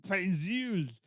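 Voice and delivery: "Pencils" in mock Austrian-French; Austrian-French accent. Shown as a demonstration. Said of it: "How do you say pencil is Arnold Schwarzenegger Austrian French".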